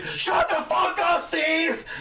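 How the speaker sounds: high mock yell with laughter; reflex catchphrase. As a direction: blurt it out in a cartoon squawk. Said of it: "me instinctively".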